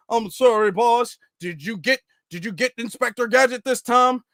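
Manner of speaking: lightly voiced Inspector Gadget villains; cartoon henchman and boss. Villains discussing Inspector Gadget's escape, mock cartoon voice. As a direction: imitate cartoon villain talk, a little put-on. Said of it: "in Inspector Gadget all the time".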